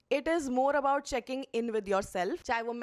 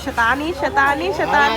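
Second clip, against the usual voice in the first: louder playful teasing call; 3 semitones higher, 7 dB louder than usual. Real, not acted. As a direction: tease the little one loudly.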